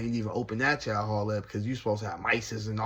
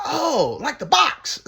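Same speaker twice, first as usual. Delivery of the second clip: put-on high, loud old man catching on; old cellmate voice; 8 dB louder, slower than usual. Cellmate naming an old TV channel, high and pleased. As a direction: pipe up high like an old man who just got it. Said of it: "He's like".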